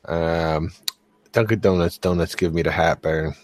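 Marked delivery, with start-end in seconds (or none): 2.7-3.3 northern Massachusetts accent on heartburn. Real, not acted. Co-host complaining about donuts, in a northern accent. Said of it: "sounded like from further up north".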